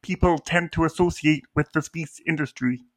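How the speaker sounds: Kermit the Frog voice. Acted. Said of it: "doing it in Kermit the Frog voice".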